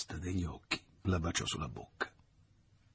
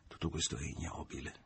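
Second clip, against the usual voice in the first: disgusto; 8 dB quieter than usual. A narrator's reading. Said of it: "pensava disgustato".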